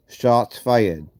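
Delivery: gauze in mouth. Real, not acted. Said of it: "so I still have gauze in my mouth".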